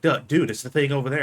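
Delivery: pestering a coworker in a retold squabble; mock exasperation. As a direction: imitate an impatient backseat driver, quickly. Retold bickering between streamed developers.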